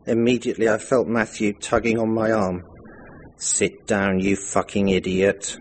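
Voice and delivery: measured, fluent story reading; memoir read aloud. A narrator's reading. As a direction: read your own story to an audience. Reads own written memoir aloud.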